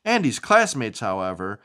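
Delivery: lively, sing-song storybook reading; animated picture-book narration; reading to children. Acted. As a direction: read it like bedtime story time for a child.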